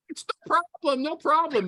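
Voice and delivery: high breezy candidate voice; mock eager candidate. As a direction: play the eager yes-man. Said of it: "What about the time zone?".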